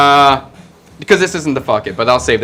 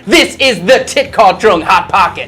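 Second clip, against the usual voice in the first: slightly raised hammy pitchman voice; infomercial announcer; 4 semitones higher than usual. Acted. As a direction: sell it like a TV ad. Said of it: "Channel the guy".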